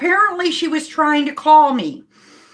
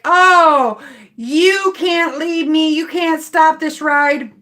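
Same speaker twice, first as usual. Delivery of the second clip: mock indignant passenger; slower than usual. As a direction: mimic an outraged passenger refusing to be dropped. Retold passenger protesting ride ending.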